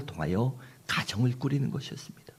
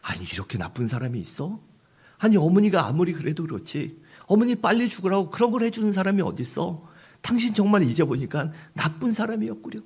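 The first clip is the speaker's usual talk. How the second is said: higher, louder mock scolding of the wife; husband scolding loudly; 8 semitones higher than usual. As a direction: act out a husband's staged outrage at his wife. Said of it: "아내에게 오히려 큰 소리를 칩니다". (일부러 아내를 나무라는 남편, 높고 큰 호통)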